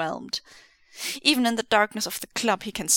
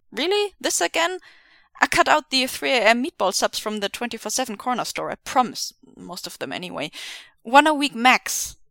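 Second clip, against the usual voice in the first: defensive; 3 semitones higher, 4 dB louder than usual. Acted. Defensive protest.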